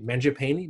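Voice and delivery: unsure Mangiapane with a rising question; trying out Mangiapane hesitantly, ending up; unsure pronunciation. Real, not acted. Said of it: "I never say his name out loud".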